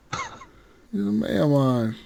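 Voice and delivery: softly crooned fake Jamaican lilt; mock Jamaican accent. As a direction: draw it out in a playful Jamaican accent. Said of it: "I want you to be Jamaican".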